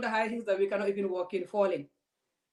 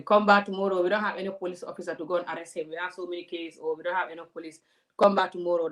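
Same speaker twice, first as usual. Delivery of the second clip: mild mock brush-off; brushing-off policeman. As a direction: wave her away like a bored cop. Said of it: "tell you".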